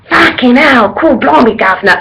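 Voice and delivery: playful Cockney imitation; mock Cockney. Fan imitating her little Cockney favourite, mock Cockney. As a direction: put on a bit of cheeky Cockney. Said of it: "my little Cockney".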